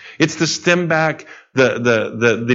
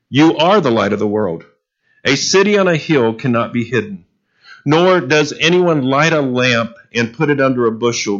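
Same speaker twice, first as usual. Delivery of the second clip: a raised, solemn reading of the Bible passage; scripture reading. Acted. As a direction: read the verses out to the church, measured and solemn. Reads scripture to the congregation.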